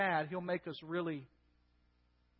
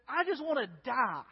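mildly dramatized cry of despair, higher pitch; overwhelmed; 4 semitones higher, 4 dB louder than usual. Retold or imitated. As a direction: act out being at the end of one's rope. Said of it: "Moses gets so overwhelmed that he says".

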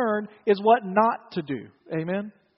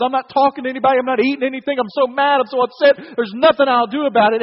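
a pouting king's louder, petulant complaint; sulky tantrum; 2 semitones higher, 5 dB louder than usual. Retold or imitated. Preacher voicing King Ahab sulking over the vineyard, mock tantrum. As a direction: whine it out like a sulking spoiled king. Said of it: "throws a first-rate temper tantrum".

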